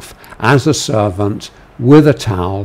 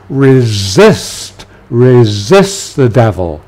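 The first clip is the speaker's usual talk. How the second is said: firm repeated resist; urgent command; 4 dB louder, slower than usual. Shown as a demonstration. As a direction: press the urgency. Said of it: "catch the tone of urgency".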